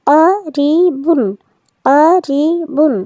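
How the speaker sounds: very slow, drawn out word read whole; slow joined reading. Shown as a demonstration. Teacher blending letters into a word for children, very slowly. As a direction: stretch each syllable as you blend the word. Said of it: "বা দুই পেশ বুন".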